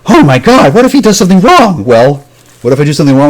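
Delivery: high-pitched mocking fretting; mock alarm. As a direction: imitate naysayers in a high, loud panic. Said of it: "hear any shit from people like".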